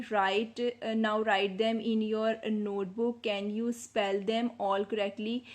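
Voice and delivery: slow, deliberate reading of the instructions. Shown as a demonstration. Teacher reads textbook instructions aloud to pupils, slowly. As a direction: read each English word out carefully for the class.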